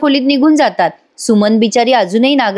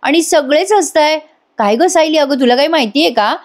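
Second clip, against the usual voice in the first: a lightly voiced puzzled mother-in-law, pitched higher; 5 semitones higher than usual. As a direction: ask around the room, genuinely baffled. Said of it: "कल्पनाताई जरा गोंधळून जातात". (गोंधळलेल्या सासूचा हलका आवाज, थोडा उंच स्वर)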